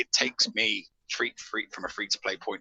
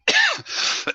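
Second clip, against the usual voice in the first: cough; 7 dB louder than usual. Real, not acted. Clearing throat mid-talk.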